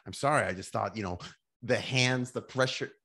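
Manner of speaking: stammering sorry, laughing through it; flustered laughing apology. Retold or imitated. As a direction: laugh while fumbling for an excuse. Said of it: "I'm like".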